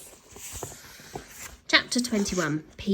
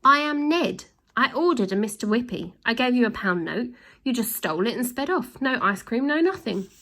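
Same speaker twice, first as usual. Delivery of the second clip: put-on high, aggrieved kid listing his complaint; a wronged boy demanding his due, rising in pitch at the end; indignant boy; 4 semitones higher than usual. Ned reminds the thieves of his stolen pound, indignant and high.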